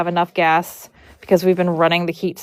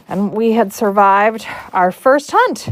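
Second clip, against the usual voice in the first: triumphant announcement. Real, not acted. Storyteller ending her first hunt tale, triumphant lift. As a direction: announce it proudly, lifting the last word.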